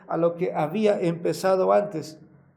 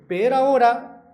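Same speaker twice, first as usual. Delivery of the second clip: "Pero ahora" higher and much louder; stressed pero ahora; 6 semitones higher, 9 dB louder than usual. Real, not acted. Preacher reading verse thirteen, crying out "Pero ahora" high and loud. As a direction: cry out "Pero ahora" triumphantly.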